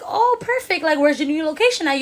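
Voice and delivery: bright high-pitched eager question, pitch jumping up at the start; excited. Retold or imitated. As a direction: sound thrilled because the problem seems solved. Asking the old nail tech's new location.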